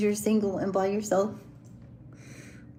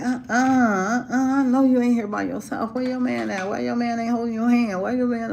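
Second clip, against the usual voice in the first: mildly raised mock holler; imitated screaming; 3 semitones higher, 4 dB louder than usual. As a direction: play a pushy guy calling her out. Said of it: "He was screaming that".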